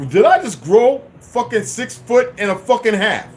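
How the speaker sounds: slow, high mock astonishment; retold disbelief. Telling viewers how tall they suddenly felt, incredulous. Retells shock at seeming taller.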